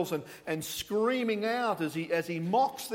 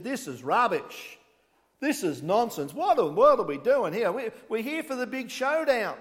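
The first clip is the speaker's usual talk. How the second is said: impatient crowd getting louder; grumbling crowd; 3 semitones higher, 4 dB louder than usual. Retold or imitated. Crowd at Mount Carmel complaining, rising impatience. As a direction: grumble like a fed-up onlooker. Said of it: "The people said".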